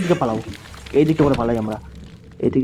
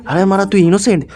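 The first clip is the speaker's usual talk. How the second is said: mocking scorn; 5 semitones higher than usual. Real, not acted. Gamer scoffs at the monster's innocence, mocking scorn.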